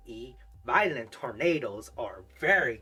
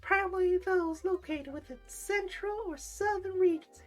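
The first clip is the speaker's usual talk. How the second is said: very high pinched flamboyant voice; nasal voice. Pretend. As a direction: squeeze the words high through the nose. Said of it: "Maybe that's my nasal voice. Um, or flamboyant voice".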